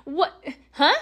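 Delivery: confused disbelief. Retold or imitated. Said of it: "I'm like".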